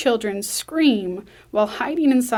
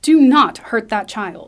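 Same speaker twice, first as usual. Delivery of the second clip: loud, slow, firm command; slow down and hit each word hard; forceful warning; 9 dB louder than usual. Acted. Susan confronts agent aiming gun.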